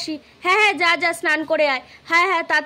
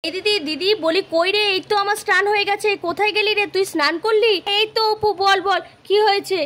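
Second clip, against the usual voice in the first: louder calling to sister across the house; 3 semitones higher, 4 dB louder than usual. Acted. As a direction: call out to her from another room.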